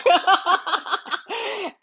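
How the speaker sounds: high burst of laughter; real, tickled laugh. Real, not acted. Host amused by mom looking for the camera, laughing.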